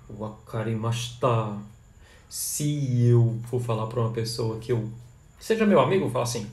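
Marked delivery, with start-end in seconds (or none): 0.1-1.6 WAKARIMASHITA slowly, syllable by syllable; respectful Japanese demo. Shown as a demonstration. Speaking to someone respected, slow careful WAKARIMASHITA.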